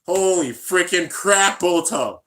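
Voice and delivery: slow, loud stunned exclamation; stunned excitement. Real, not acted. Streamer seeing a big donation, stunned. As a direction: let the shock spill out.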